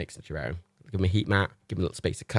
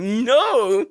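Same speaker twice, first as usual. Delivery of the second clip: firm mock no; 7 dB louder than usual. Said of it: "And I'm like".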